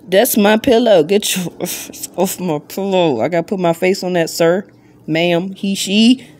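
fake-stern, laughing through it; mock scolding. Owner shoos her tortoise off her pillow, playful mock scold.

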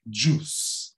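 "juice" with just the oo vowel; a single long oo in "juice", JOOS; correct juice. Shown as a demonstration. Teacher modelling the fix, "juice" as JOOS. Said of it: "é só U ali".

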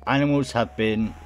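lightly voiced broadcast; a hint of public announcer; radio announcer. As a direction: project it a little, like a bulletin. Reads radio broadcast in game.

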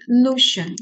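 "lution" slowly, with full weight on "lu"; primary stress. Shown as a demonstration. Teacher points out the main stress to students, stressed syllable demo. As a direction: lean on the first syllable of "lution". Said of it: "这里有个首重音".

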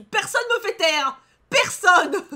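high, loud refusal to be silenced; defiant outburst. Real, not acted. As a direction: shout it indignantly, slowing for emphasis. Defiant reaction to being shushed. (cri de défi indigné)

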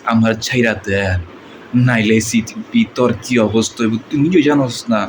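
Dipjol-style gangster dialogue; lightly voiced film villain; movie villain. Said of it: "এটা ছিল আমাদের ডিপজল ভাই ডায়লগ".

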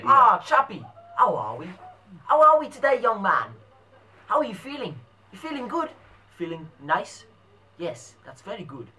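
hammed-up English gent, swooping pitch; English pom accent. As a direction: play a chummy English chap. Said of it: "I'm talking English pom".

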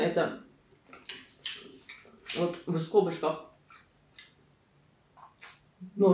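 speaking with food in mouth; words muffled by chewing; talking while chewing. Real, not acted. Seen 2: forkful into mouth at 0.7, then jaw closed, chewing while reading.

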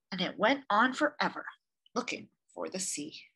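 gentle read-aloud storyteller; story narration. A narrator's reading. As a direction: read it like a picture book for children. Reads picture book aloud.

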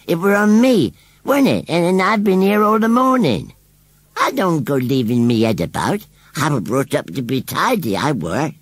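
high, loud rustic scarecrow voice; indignant rustic scarecrow. A narrator's reading. Scarecrow denies losing his head to the children, indignant. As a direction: play a scarecrow standing on his dignity.

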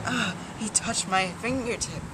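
swooning fangirl. Retold or imitated. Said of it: "And it's just like".

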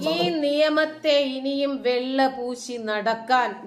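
slow, heavily weighted scolding; indignant rebuke. Real, not acted. Vlogger shaming those who whitewash the law, indignant. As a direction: hammer out each word in reproach.

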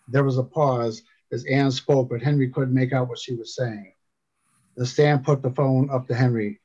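measured audiobook narrator; composed storytelling voice; story narration. A narrator's reading. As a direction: read the tale aloud with steady pacing. Reads a story aloud.

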